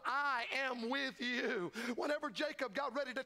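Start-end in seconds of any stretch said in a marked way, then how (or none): 0.0-1.7 God's voice. Acted. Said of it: "God Almighty said".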